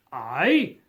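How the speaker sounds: cried out. A narrator's reading. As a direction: ghost crying out, taken aback. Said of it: "cried the spirit".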